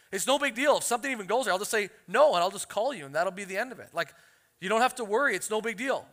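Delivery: put-on a casual, breezy teen reassuring dad; paraphrasing daughter. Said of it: "This is me paraphrasing".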